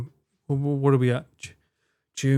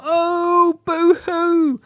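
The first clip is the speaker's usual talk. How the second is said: high, mocking boo-hoo; mock sob; 4 dB louder, much slower than usual. Streamer mocking his own single life, high mock boo-hoo. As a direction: sneer at himself in a high whine.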